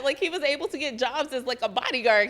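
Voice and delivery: normal talking voice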